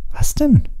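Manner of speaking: Harry startled by Ron's news; surprised. Acted. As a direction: snap a startled question.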